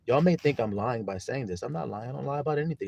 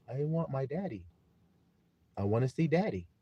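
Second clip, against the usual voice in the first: imitated crying child; 3 semitones higher than usual. Father quoting his crying son's plea, lightly imitated child. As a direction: lightly mimic a child begging, without screaming. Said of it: "unconsolably screaming and crying".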